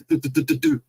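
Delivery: rapid patter of little footsteps; quick run of "do-do-do" sounds; imitated scampering. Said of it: "all of a sudden we hear".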